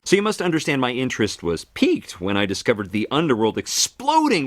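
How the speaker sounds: grand, swooping theatrical delivery; hammed-up stage storyteller; showy narrator god. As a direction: play it big for the audience. Theatrical Hermes monologue.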